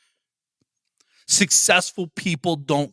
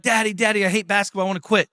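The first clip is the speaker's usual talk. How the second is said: put-on higher, whining little kid asking to quit; whiny kid; 3 semitones higher, faster than usual. Son whining to his dad about quitting basketball, in a higher whiny kid voice. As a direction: play the kid begging to give up.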